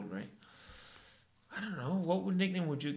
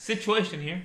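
pitched-up, louder phone greeting; The Situation impression; 4 semitones higher, 5 dB louder than usual. Friend showing how he answers, loud high greeting. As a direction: pick up the phone with a rising self-announcement. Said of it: "who answers the phone like that?".

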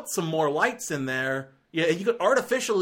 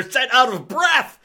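much higher, louder, slow mocking shout; mock Bale shout; 10 semitones higher, 9 dB louder than usual. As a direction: yell the line in a hammed-up Batman parody. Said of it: "His first lines are".

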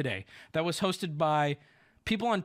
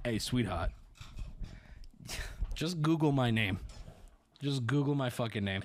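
condescending reply; 6 semitones lower, 3 dB quieter than usual. Retold or imitated.

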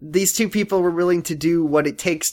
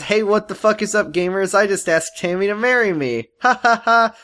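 lightly voiced sitcom comic; brash vaudeville comic; 4 semitones higher than usual. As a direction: toss off jokes like a stand-up. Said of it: "ba-ding, bang, bang".

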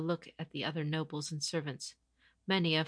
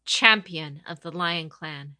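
proud announcement; 10 dB louder than usual. Acted. Champion announcing herself to the captives, loudly. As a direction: declare it to the whole courtyard. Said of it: "she announced".

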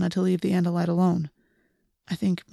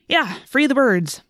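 slow, louder mock cheer; sarcastic; 5 semitones higher, 4 dB louder, slower than usual. A narrator's reading. Marco mocking Tobias's bird talk, slow sarcastic cheer. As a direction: say it like a bored mocking slogan. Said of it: "Marco commented sarcastically".

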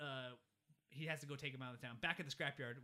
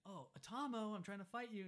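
giant's earnest voice; 7 semitones higher than usual. Retold or imitated. Retelling giant's play fight.

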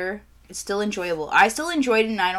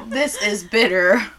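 teary and laughing; 3 dB louder, slower than usual. Real, not acted. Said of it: "my eyes are watering".

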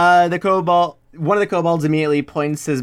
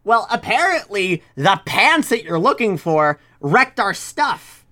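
kobold threatening; 3 semitones higher than usual. Acted.

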